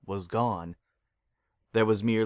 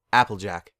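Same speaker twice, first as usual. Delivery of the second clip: firm, louder cut-off of a name; cutting her off; 7 dB louder than usual. Acted. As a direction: stop her short. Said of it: "she cut her off simply".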